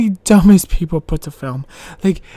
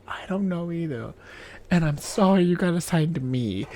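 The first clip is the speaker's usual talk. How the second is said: much softer, sheepish admission; sheepish apology; 3 semitones lower, 6 dB quieter than usual. Retold or imitated. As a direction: mumble it like a guilty kid. Apologizing to guardian angel.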